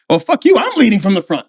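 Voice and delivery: high-pitched cocky comeback; competitive retort. Retold or imitated. Marine contesting who leads the run, competitive retort. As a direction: jump in to claim the front. Acted rivalry over leading the run.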